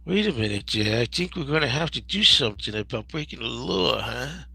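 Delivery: a hint of Archie Bunker gone southern; Archie with southern accent. Host imitates Carroll O'Connor's sheriff with southern accent. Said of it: "Archie with a southern accent".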